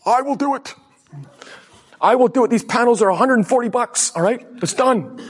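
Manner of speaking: high, loud eager promise; eager offer. Retold or imitated. The speaker telling the neighbor he'll build her fence, high and loud. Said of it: "And I'm like".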